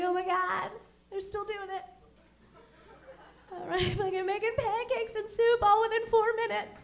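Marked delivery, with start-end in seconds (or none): 0.0-5.6 mock awe. Moved by old infomercial, retold.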